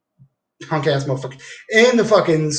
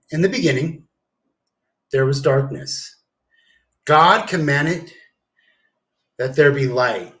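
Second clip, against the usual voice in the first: slow, solemn recital; grand proclamation. Retold or imitated. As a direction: declaim it like scripture. Reciting his grand history speech.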